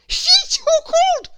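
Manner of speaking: high, loud sobbing cry; crying king. A narrator's reading. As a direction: bawl the words like a weeping king. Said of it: "cried the king".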